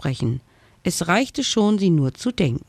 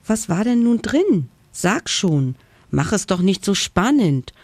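excited interruption; 4 semitones higher than usual. Acted. Dragon interrupts the ghost, impatient and excited. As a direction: urge him on, can't wait. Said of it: "unterbrach der Drache aufgeregt".

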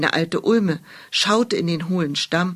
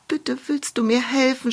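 sobbing; 6 semitones higher than usual. Acted. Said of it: "schluchzte Hulda".

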